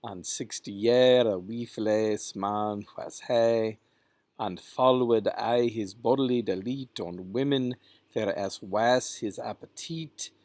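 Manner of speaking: "wifeless" as "wee-fless", "he" as "hay"; Middle English pronunciation. Shown as a demonstration. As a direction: sound "appetite" as "ah-peh-teet". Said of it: "talk about the pronunciations".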